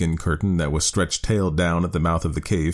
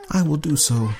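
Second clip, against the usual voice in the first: grudging woman; 10 semitones higher than usual. A narrator's reading. Woman voiced in story.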